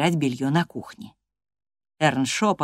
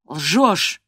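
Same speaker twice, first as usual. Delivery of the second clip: louder, indignant retort; 4 dB louder than usual. Acted. Earnshaw indignantly calls Catherine a liar. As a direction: snap back in outrage. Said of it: "возмутился Эрншо".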